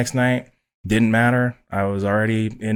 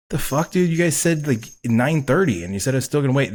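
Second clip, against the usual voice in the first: indignant, higher-pitched comeback at first; retold protest; 4 semitones higher than usual. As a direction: protest in disbelief, acting out your own reaction. Retold protest at early start call.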